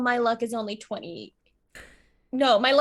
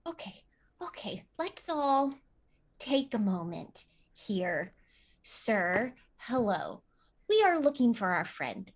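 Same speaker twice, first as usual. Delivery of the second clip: calming; 2 semitones lower, 7 dB quieter, slower than usual. Acted. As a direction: quietly ask everyone to take a moment. Player calms a tense confrontation.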